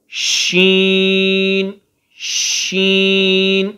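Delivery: شین drawn out with a long ش; long sheen. Shown as a demonstration. Teacher introducing a letter, شین drawn out. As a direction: stretch the ش of شین. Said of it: "اب آگے آ گیا".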